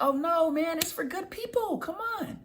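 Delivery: high-pitched playful salesman's comeback; bright reversed pitch. Shown as a demonstration. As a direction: flip the no right back at them up high. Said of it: "You see how I reverse that?".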